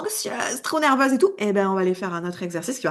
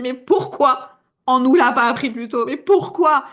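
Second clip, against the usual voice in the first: louder, rising, laughing in disbelief; amazed exclamation; 3 semitones higher, 5 dB louder than usual. Pretend. You discovering the effects, a loud amazed laughing exclamation. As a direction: let the amazement burst out with a laugh. Imagined amazed inner reaction.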